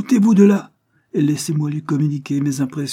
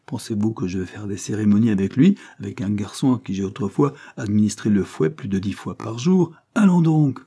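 brisk retort; 3 dB louder than usual. Acted. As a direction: brush off the objection with spirit. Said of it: "répliqua-t-elle vivement".

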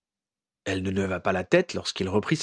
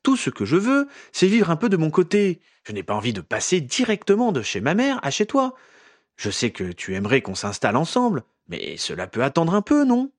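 lightly voiced Ginny, higher, insistent; pleading young woman; 7 semitones higher than usual. A narrator's reading. Ginny explains to Harry she wants freedom, higher and insistent. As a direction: press your point, higher and earnest.

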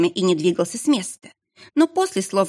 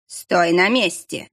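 barked order; slower than usual. Acted. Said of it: "рявкнул мастер Шира".

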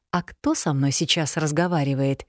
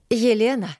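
calling out; 6 semitones higher than usual. A narrator's reading. A strange woman calls to Elena, higher and urgent. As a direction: call her urgently from afar.

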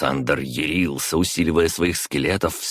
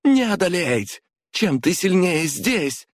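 high, slow defiant taunt; defiant woman. A narrator's reading. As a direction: warn him he will fall. Sveta defies Konstantin.

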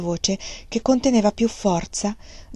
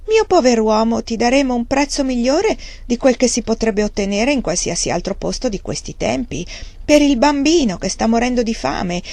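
oily, ingratiating, a little higher; butter him up, falsely kind; unctuous; 4 semitones higher than usual. Acted. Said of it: "disse con voce untuosa". (voce untuosa e mielosa)

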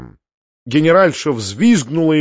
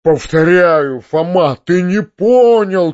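louder, higher slowed shout; 4 semitones higher, 4 dB louder, slower than usual. A narrator's reading. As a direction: insist desperately. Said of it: "кричал дядя".

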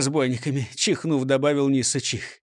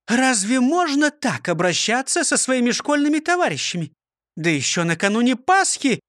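higher, raised indignant teacher voice; 7 semitones higher than usual. A narrator's reading. The teacher scolds the prosecutor for treating his classmates so, indignant. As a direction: scold him like a shocked schoolmistress. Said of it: "возмутилась Фрёкинсталь".

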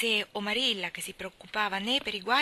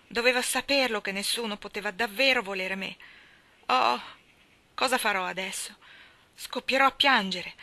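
despairing; 5 dB louder than usual. Acted. Orphan about to cry.

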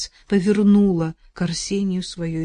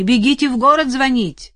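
loud, higher shout; 7 semitones higher, 8 dB louder than usual. Acted. Арсений кричит соседке звонить, громко. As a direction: yell the order across. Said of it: "прокричал".

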